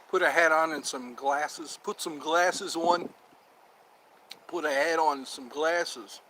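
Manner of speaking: slow, deliberate instructions; slow explaining. Real, not acted. Explaining the disguise for a second character, slowly. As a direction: spell out the costume slowly.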